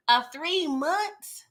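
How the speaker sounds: slow, drawn-out incredulous question; mock disbelief, dragged slow. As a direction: stretch it out, can't believe it. Repeats in disbelief.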